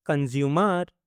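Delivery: कंज्यूमर with a long open final "mar"; कंज्यूमर lengthened for learners to follow. Shown as a demonstration. Word model, then drawn-out repeat.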